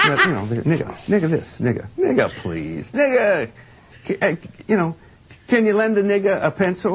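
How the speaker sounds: hitting each nigga hard; emphatic nigga. Retold or imitated. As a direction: lean on every nigga. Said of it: "I put the H on it to emphasize it's nigga".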